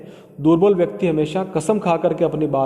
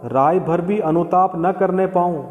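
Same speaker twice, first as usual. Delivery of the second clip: poem recitation. Shown as a demonstration. Teacher recites verse slowly.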